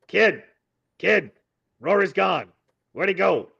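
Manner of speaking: high, rising-and-falling cries of alarm. Acted. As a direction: call out in alarm for a missing friend. Bird alarmed at companion vanishing.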